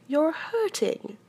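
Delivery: high, loud, drawn-out protest; pained cry. A narrator's reading. Pooh protests as Rabbit pulls his paw, crying out. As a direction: wail it slowly, pitched well up. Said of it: "cried Pooh".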